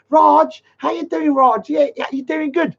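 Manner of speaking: mock him sucking up in person; fawning friendly greeting. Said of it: "he's like".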